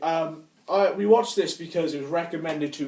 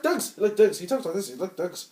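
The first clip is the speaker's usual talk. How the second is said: mock Irish gypsy accent, pitched up; imitated film accent; 3 semitones higher than usual. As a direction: put on a garbled Irish traveller accent.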